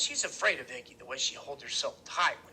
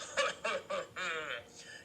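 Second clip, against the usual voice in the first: fat belly laugh; 2 semitones higher, 5 dB quieter than usual. A narrator's reading. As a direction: voice a big man's belly chuckle. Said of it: "This fat sound way down in his big belly".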